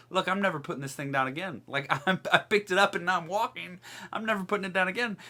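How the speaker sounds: quick, eager, defiant rush; excited healed man. Retold or imitated. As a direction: blurt it out, thrilled to be walking. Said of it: "like he's responding".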